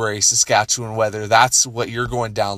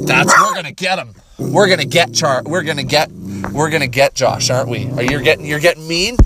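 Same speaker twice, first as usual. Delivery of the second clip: riling up the dog; 3 semitones higher than usual. Pretend. Riling his dog up to go after Josh, playful hype. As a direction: egg the dog on, teasing and gleeful.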